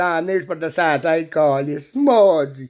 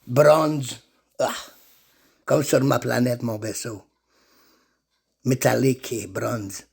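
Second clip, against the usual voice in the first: low-pitched racer describing his vessel; Martian racer character; 5 semitones lower than usual. Acted. Martian racer explains his light-year races, in a low voice.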